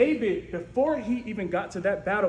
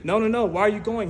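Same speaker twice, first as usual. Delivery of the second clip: louder pleading no's; mock protest; 6 dB louder, faster than usual. Doubters calling after David, louder protest. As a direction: try to stop him going. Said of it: "they're saying".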